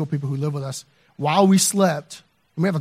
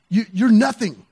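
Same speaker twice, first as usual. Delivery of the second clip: retold put-down, higher and louder; confrontational; 5 semitones higher, 5 dB louder than usual. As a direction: imitate a confrontational neighbor dismissing someone. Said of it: "from this confrontational".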